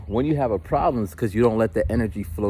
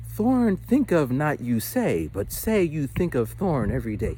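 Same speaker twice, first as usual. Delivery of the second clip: higher, slow, odd-word-order wise master voice; Yoda voice; 5 semitones higher, slower than usual. Retold or imitated. Wise sage answering the bubble millionaire, mock Yoda. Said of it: "Yoda face on".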